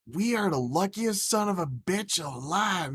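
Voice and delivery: retold elation. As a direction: break big news with glee. Retold excited news to mom.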